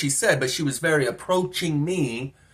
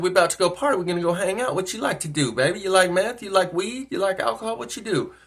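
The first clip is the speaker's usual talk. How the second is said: higher, rising run of questions; lightly voiced flirting woman; 4 semitones higher than usual. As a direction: lightly imitate her coaxing offers.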